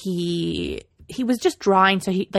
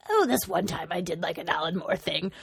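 nonchalant; 3 semitones lower, 5 dB quieter than usual. Retold or imitated.

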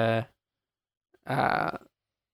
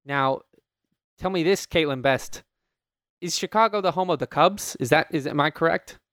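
mock Chicago accent; 2 semitones higher than usual. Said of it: "try to do what I think Chicago sounds like".

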